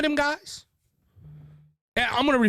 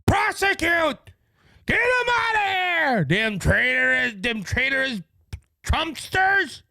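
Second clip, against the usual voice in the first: mock outrage; 5 semitones higher, slower than usual. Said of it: "fit to be tied".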